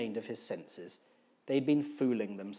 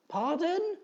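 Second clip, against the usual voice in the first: shouted back. Acted. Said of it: "he shouted back".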